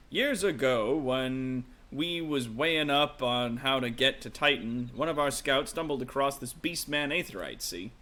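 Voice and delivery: put-on lightly done rough-edged sailor type, Brooklyn-ish accent; rough adventurer NPC. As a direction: read it as a cocky old rogue telling a tale. Reading the rough NPC's lines.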